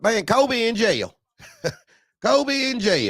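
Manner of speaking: high, slow words through laughter; cracking up mid-sentence; real laughter breaking through; laughing. Real, not acted. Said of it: "I'm laughing".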